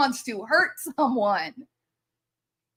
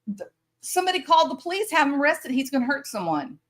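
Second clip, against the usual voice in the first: higher, fast mock panicked yell; mock scream; 4 semitones higher, much faster than usual. Woman at a board meeting demanding the police, mock shrieking. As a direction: play her frantic cry for help, hammed up. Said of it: "she screams at him".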